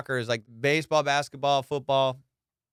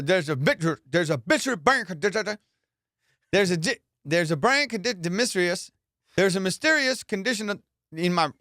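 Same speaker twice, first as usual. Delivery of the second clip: mock stumbling reader; 4 semitones higher than usual. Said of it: "He's a".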